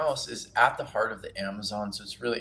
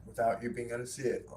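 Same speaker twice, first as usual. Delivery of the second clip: talking with a mouthful; words round a bite of food; mouth full; 2 semitones higher, faster than usual. Real, not acted. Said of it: "Oh, choking".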